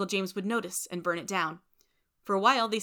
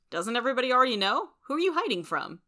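puzzled, higher-pitched questioning; confused; 6 semitones higher, 4 dB louder than usual. A narrator's reading. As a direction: question him in mild bewilderment.

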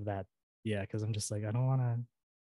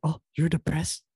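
exaggerated Filipino accent, higher and louder; mom's Filipino accent; 5 semitones higher, 5 dB louder than usual. Mom questioning her kid's post, Filipino accent. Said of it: "I just kinda emphasize the accent".

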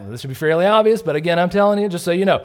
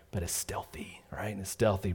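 whispered, slowed-down word stealthy; 5 semitones lower, 11 dB quieter than usual. Shown as a demonstration. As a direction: breathe it like a secret. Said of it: "shows stealthy gossip".

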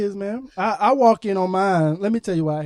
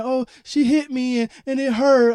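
put-on whiny tattling child, higher and louder; mock crying kid; 5 semitones higher, 6 dB louder than usual. Dad mimics his oldest complaining, whiny. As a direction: imitate the upset daughter. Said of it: "she comes in there crying".

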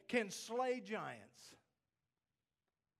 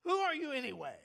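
defiant outburst; 6 dB louder, faster than usual. Acted. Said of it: "he coughs something out".

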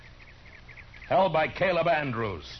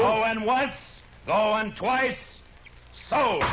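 raised, rising auction call; auctioneer; 4 semitones higher, much slower than usual. Acted. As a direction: sing out the final call. Auction closes, hammer call.

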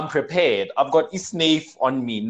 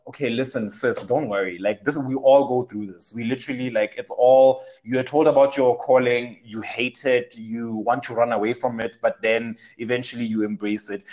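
reassuring; 3 semitones lower than usual. Retold or imitated. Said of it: "but I just had to reassure".

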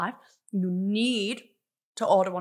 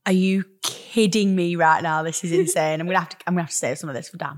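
crunching through a mouthful; talking while crunching food; 3 semitones lower, 5 dB louder than usual. Real, not acted. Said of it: "I'm sorry if you can hear me crunching".

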